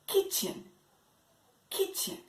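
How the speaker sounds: unvoiced whispered kitchen. Shown as a demonstration. Teacher whispering the word for students.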